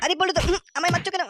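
loud protest. Acted. Father being beaten.

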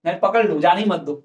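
ordinary talk, nothing marked

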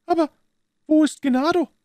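high, far-off voice of an anxious Italian woman. A narrator's reading. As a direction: ask tensely, as a frightened Italian wife. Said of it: "fragte sie". (ängstliche Italienerin, hohe Stimme)

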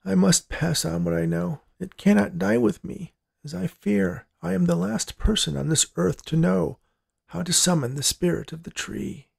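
put-on high, softened old man voice; solemn dying grandpa. A narrator's reading. Dying grandpa passes on what he knows, solemn.

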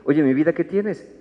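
slow, tender question to a partner; a caring partner's slow ask; gentle ask. Shown as a demonstration. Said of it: "tendríamos que decir".

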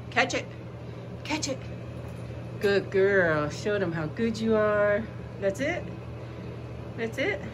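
very high cheering the dog on; excited pet talk. Real, not acted. Playing fetch, high.

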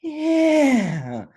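high, slow stoner yeah; stoned friend voice. Retold or imitated. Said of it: "He goes".

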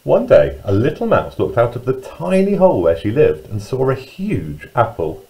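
put-on lively, singsong storyteller reading to young children; children's story narration. A narrator's reading. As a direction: read it with big pitch swoops on key words.

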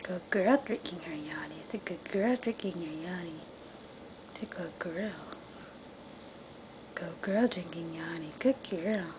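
soft whisper while she drinks; whispering to a drinking cat; whispered praise. Real, not acted. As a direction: hush your voice so she keeps drinking.

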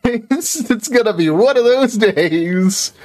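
high and drawn out; slow dramatic lament. Pretend. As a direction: stretch it like a tragic hero. Repeats lament slower.

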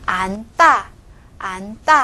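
안大 said an-tta with a tense tt; tensed second syllable. Shown as a demonstration. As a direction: demonstrate 안大, n then tense tta. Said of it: "怎么读呢".

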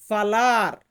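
crisp ফালার; Portuguese word. Shown as a demonstration. Teacher models ফালার for students, careful Portuguese. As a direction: say ফালার as falar, fah-LAHR. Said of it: "Portuguese ভাষাতে বলা হয়".

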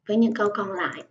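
ordinary talk, nothing marked

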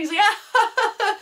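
high-pitched mock burst of laughter; imitated laughing. Teacher cracking up at the Chandler Bing remark, imitated laughing. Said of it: "he starts laughing".

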